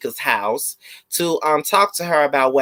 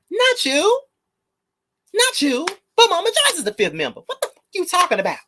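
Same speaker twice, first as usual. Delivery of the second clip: exasperated. Real, not acted. Heated rant at mother.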